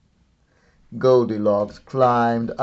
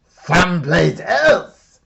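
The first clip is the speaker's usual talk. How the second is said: big booming dinosaur dad, louder; loud booming Papa Dinosaur; 7 semitones higher, 8 dB louder than usual. A narrator's reading. Papa Dinosaur announcing to his family, loud and booming. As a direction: boom it out like a giant papa dinosaur. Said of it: "in his loud, booming voice".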